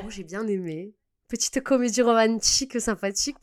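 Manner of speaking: put-on light southern French Marseille accent. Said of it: "Pourquoi je prends un accent marseillais".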